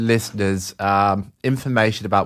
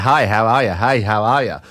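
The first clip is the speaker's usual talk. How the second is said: put-on South African accent. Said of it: "so I did a South African accent".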